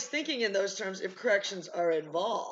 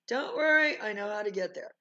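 mock reassurance; 2 semitones higher, 5 dB louder than usual. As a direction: brush off a nervous passenger's worry. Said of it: "And then they say to you".

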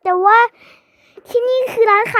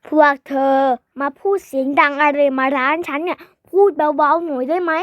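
grumpy shopkeeper; 4 semitones lower than usual. Acted. Shopkeeper scolds noisy kids.

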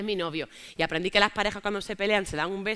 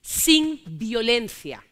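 slow, deliberate repeat; 3 dB louder, much slower than usual. Shown as a demonstration. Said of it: "repito por la denuncia".

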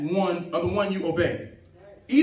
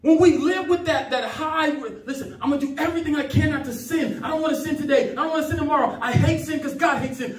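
raised, driving sermon delivery; impassioned pulpit voice; fervent preaching; 6 semitones higher, 3 dB louder than usual. Real, not acted. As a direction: preach it with conviction, pitched up. Preaching with full fervour.

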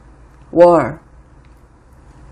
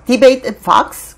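imitated disbelief, higher and louder; incredulous; 5 semitones higher, 5 dB louder, much slower than usual. Host voicing Pelosi scoffing at a Fox debate, incredulous. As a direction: echo the question as if it were absurd. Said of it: "자기가 생각할 때도 어이없는 거죠".

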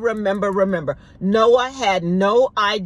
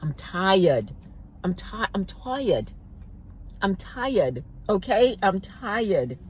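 weary tired prayer; 5 dB quieter than usual. Retold or imitated. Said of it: "I know many of us asking that".

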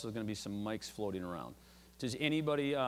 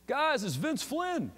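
mock call out, pitched well up and stretched slowly; a lively imitated holler, not full force; retold yell; 12 semitones higher, 3 dB louder, much slower than usual. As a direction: playfully shout it across to the agents. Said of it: "he starts yelling at the Secret Service agents".

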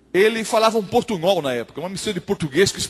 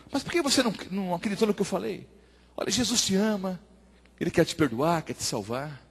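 gentle appeal; 8 dB quieter than usual. Acted. Pastor urges the doubting young man to believe, gentle appeal. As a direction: coax softly, offering forgiveness.

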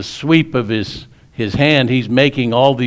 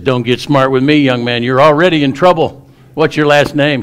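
put-on louder, higher scolding of a boy; teacher scolding; 4 semitones higher, 5 dB louder than usual. Teacher scolding the boy in class, angry raised voice. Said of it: "she's yelling at him".

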